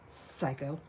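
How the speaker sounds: quiet inner-voice aside; under my breath. Retold or imitated. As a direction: say it only to yourself. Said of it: "That part I said inside my head".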